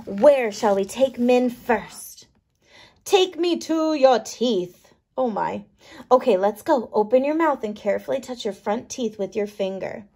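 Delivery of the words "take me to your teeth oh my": tiny microbe voice. Acted. Min speaks.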